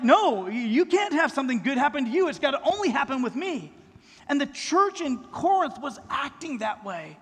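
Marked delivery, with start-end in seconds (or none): 0.0-3.7 mock whiny sibling, louder; jealous child. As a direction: voice a child who won't share. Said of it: "They were like".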